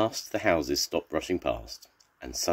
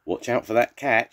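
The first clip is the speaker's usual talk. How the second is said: high, raised-voice warning; mock-urgent shout, pitched up; storybook shout; 7 semitones higher, 5 dB louder than usual. A narrator's reading. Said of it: "shouted the vet".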